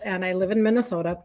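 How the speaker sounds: natural Minnesota accent slipping out; real Minnesota accent. Real, not acted. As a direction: say it with Minnesota vowels. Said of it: "was my Minnesota accent".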